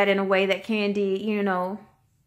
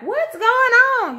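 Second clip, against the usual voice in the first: airhead voice; 12 semitones higher, 4 dB louder than usual. Retold or imitated. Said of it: "with her airbrain self".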